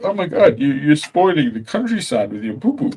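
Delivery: high, shrill-free mock outrage; mock outraged complainer. Mocking the worried locals, high mock outrage. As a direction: mimic a fussy complainer.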